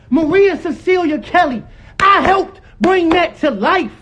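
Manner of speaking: emphatic, worked-up claim. Real, not acted. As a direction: stake the claim, stretching it out. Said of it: "Stop yelling".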